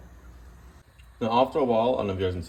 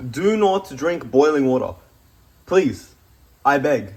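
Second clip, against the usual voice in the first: earnest pleading disclaimer, slower and louder; emphatic warning; 2 semitones higher, 5 dB louder, slower than usual. Real, not acted. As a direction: do not drink said slowly and louder, pleading. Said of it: "I don't know how I can emphasize this".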